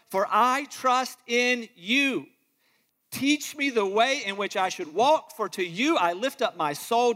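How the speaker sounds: fervent psalm reading; scripture reading. Acted. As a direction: read it as a heartfelt plea to God. Reads Psalm passionately.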